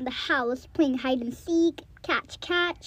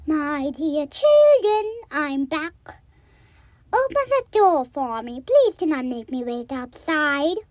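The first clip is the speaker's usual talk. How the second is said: softened wolf voice; 4 dB louder than usual. Acted. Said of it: "made his voice a lot softer".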